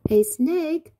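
high, loud startled question; alarmed question. A narrator's reading. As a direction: ask it in storybook disbelief. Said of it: "asked Beetle".

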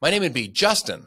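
bright, eager and high, selling every word; enthusiastic high-pitched voice. Retold or imitated. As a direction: bounce it out like the happiest guy awake at 5 am. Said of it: "really enthusiastic, high-pitched voice".

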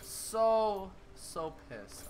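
slow, drawn-out exasperation; frustrated and deflating; pissed off. Real, not acted. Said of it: "I'm so freaking pissed right now".

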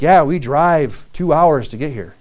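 slow, grudging "two hours"; mock complaining. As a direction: grumble about the long drive. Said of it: "some people are like".

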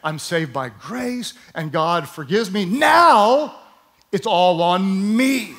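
hammed-up self-pressuring Christian; imitating anxious Christians. Preacher mocking believers who work to earn grace, building. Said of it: "what Christians tend to think is".

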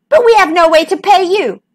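high-voiced, flustered corporal; anxious underling's high protest; worried objection. A narrator's reading.

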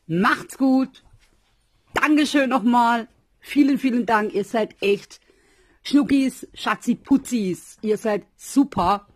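high, loud, overjoyed farewell; shower them with love as you sign off; gushing goodbye. Real, not acted. (überschwänglicher Abschied)

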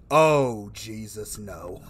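ordinary talk, nothing marked

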